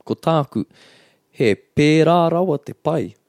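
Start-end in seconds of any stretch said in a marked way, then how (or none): 1.3-3.2 high, rising excitement on pērā; emphatic intonation. Shown as a demonstration. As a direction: stress pērā with a big lift, really that good. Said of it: "You can hear it in, in the intonation".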